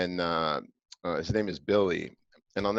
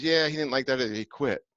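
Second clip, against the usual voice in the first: imitating the mother; 4 semitones higher, 4 dB louder than usual. Mother Deborah voiced.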